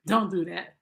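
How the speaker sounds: "Don't do that" said through a laugh. Shown as a demonstration. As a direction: laugh as you repeat "Don't do that".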